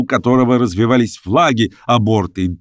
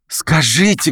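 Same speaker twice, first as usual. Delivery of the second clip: a mild, higher call with a hint of embarrassed laughter; shy laughing call; 7 semitones higher, slower than usual. A narrator's reading. Daisy calls to the revellers, laughing and embarrassed. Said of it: "крикнула, смеясь и смущаясь Дейзи".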